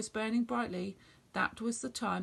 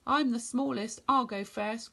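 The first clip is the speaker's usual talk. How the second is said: a touch louder, calling to his brothers; 4 dB louder than usual. Acted. Little goat calls to his brothers, going first, mildly raised voice. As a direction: call out bravely. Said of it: "called the little billy goat Gruff".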